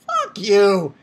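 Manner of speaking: emphatic, fully voiced swearing; open, scornful curse. Same curse repeated, voiced louder.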